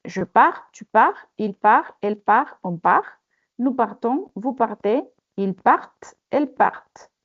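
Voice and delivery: cada forma de partir dicha despacio y clara, sin pronunciar la consonante final; pronunciación modelo. Shown as a demonstration. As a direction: marca bien cada persona, sin sonar la s ni la t finales. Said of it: "Je répète". (profesora modelando la conjugación de partir para la clase, con pronunciación cuidada)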